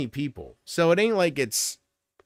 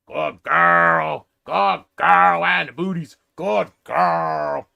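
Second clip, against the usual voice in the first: loud, high gushing praise; loud gushing praise for the dog; excited dog praise; 3 semitones higher, 7 dB louder, much slower than usual. Real, not acted. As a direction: cheer the dog on like she's the best.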